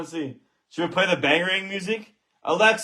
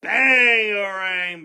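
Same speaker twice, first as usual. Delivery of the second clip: slow celebratory shout; slower than usual. Real, not acted. Celebrating the hit.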